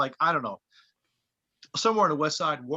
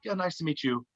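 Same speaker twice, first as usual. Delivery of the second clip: softer, unfriendly retold greeting; standoffish; 5 dB quieter than usual. Band meeting the new comedian, standoffish. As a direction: greet them politely but with no friendliness. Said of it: "uh, not friendly".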